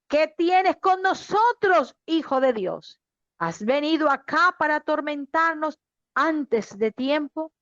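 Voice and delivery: mild mock cry. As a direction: read the demons' cry without shouting. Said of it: "ellos lanzaron gritos diciendo".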